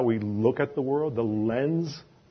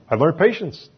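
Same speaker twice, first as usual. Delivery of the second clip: louder emphasis; 6 semitones higher, 9 dB louder than usual. Acted. Repeats louder and higher.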